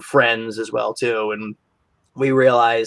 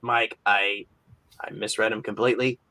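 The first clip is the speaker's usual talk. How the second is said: teary apology; 3 semitones lower, 4 dB quieter, faster than usual. Retold or imitated. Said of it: "I was welling up with tears".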